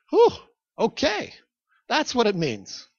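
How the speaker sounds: mildly taken-aback listeners, pitched high. Retold or imitated. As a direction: imitate a crowd reacting, high at first then settling. Voices a taken-aback congregation.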